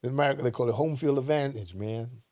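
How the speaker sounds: a quick jokey American accent. Shown as a demonstration. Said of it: "that's my American accent".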